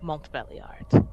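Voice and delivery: measured, careful official request with long pauses; lightly voiced envoy, stately and deliberate; formal envoy. Envoy making an official request for House Montbéliard, formal and careful.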